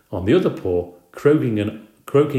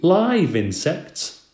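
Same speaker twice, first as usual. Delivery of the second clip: high, slow squeak; 8 semitones higher, much slower than usual. A narrator's reading. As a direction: squeak it out in disgust. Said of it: "I squeaked".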